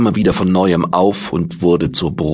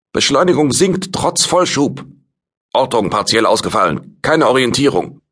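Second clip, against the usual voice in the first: tense crew report; 7 semitones higher than usual. Acted. Crew report during space battle.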